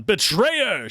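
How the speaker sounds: loud accusing cry; accusing shout. Acted. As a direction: shout it at the prisoner. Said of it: "shouts another".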